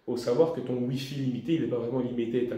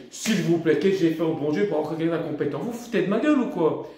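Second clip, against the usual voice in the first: retold irritation; 4 dB louder than usual. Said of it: "et moi je m'énerve".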